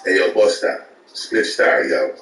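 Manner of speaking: light imitation of a Jamaican hustler, every phrase ending in yo; mock Jamaican accent asking for money; lightly voiced Jamaican accent with a tacked-on yo. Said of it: "the nigga see us and be like".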